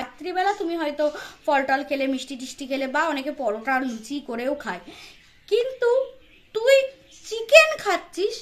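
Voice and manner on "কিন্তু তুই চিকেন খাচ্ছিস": outraged disbelief. Real, not acted. Outraged at eating chicken.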